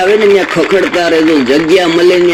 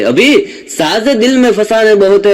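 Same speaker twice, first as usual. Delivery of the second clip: raised recitation; 5 semitones higher than usual. Shown as a demonstration. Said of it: "પણ અભી સાજ દિલ મેં ફસાને બહોત હૈ".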